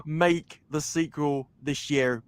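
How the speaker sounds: slow, earnest plea; begging. Real, not acted. Fan begging the filmmaker for a sequel, slowly pleading. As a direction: draw out the plea sincerely. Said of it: "I one hundred percent beg you".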